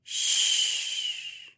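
soft whispered shush; soothing shush. Acted. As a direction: hush her gently. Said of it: "Zoe soothed".

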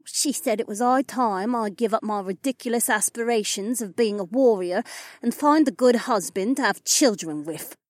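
high-pitched, bitter elf woman; spat out. A narrator's reading. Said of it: "Anastasia spat out".

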